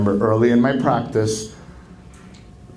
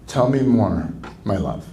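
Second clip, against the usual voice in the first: tender; 2 semitones lower than usual. Shown as a demonstration. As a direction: coax your spouse gently. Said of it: "demo of tender listening".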